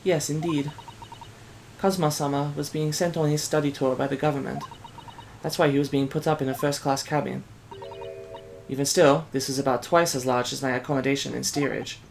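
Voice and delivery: put-on soft, lightly Asian-accented young assistant; restrained Asian accent, softly spoken; light Asian immigrant accent. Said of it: "like, an Asian immigrant".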